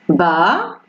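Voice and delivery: "Ba" ending on an open A; "Ba" as a careful model with silent final S. Shown as a demonstration. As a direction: say "Ba" with no S at the end. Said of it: "on prononce pas le S".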